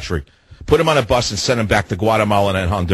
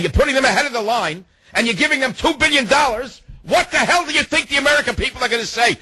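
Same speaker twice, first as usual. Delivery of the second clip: rising outrage; 8 semitones higher than usual. Real, not acted. Host rants to listeners in rising outrage. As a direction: pitch climbing higher and higher in indignation. Ranting at president.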